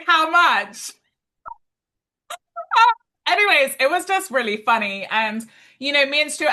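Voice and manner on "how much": high, loud imitation of a startled partner; mock incredulous question. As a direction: exclaim it in mock disbelief. Re-enacting Stuart's call about price.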